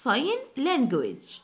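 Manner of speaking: each syllable drawn out slowly; slow model. Shown as a demonstration. Teacher to students, slow model pronunciation. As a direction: say it slowly for the learners to copy. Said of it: "teacher models English for learners".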